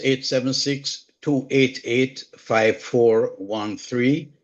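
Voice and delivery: slow, careful number reading; slow, deliberate phone number dictation. Real, not acted. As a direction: spell the digits out slowly for listeners. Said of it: "dictating phone number on WhatsApp".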